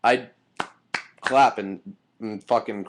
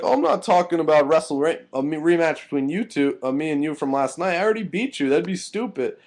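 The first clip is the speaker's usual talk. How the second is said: higher-pitched mock retort; mimicked scoffing, voice raised in pitch; mocking imitation; 6 semitones higher than usual. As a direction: imitate a dismissive opponent, pitched up. Acting out Cole refusing the rematch.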